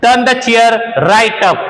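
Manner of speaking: very slow, careful teacher read; very slow example for learners; very slow model sentence. Shown as a demonstration. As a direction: dictate word by word. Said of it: "ये बढ़िया है".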